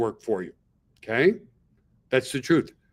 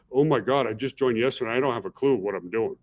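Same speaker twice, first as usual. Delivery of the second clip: a hint of a flustered beginner, trailing off lower; mock clueless newbie; 3 semitones lower than usual. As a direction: sound lost and unsure, lightly mocked. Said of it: "don't position yourself like".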